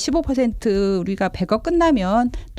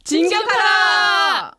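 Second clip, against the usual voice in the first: slow drawn-out battle cry, much higher; loud gung-ho soldier; 10 semitones higher, much slower than usual. Pretend. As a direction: yell the charge order to the troops. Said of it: "진격하라 한 번만 해주세요".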